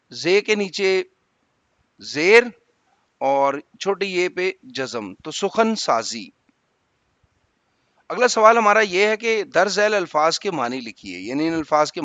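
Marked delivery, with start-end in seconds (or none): 5.1-6.3 سخن سازی said slowly, each syllable clear; careful pronunciation. Shown as a demonstration. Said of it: "تو سین پہ جو ہے نا پیش".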